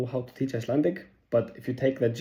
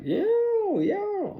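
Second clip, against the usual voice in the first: casual yeah. Retold or imitated. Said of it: "they go like".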